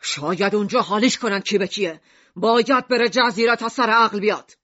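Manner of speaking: understated stern character voice; mild angry shout. A narrator's reading. Mishima overrules Lucrece's plea, mildly angry shouting. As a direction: scold firmly, barely raising the voice. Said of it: "میشیما داد زد".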